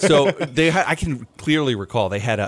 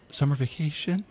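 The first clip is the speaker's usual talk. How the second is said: mock parent panic; 5 semitones higher, 4 dB louder, slower than usual. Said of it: "they're thinking".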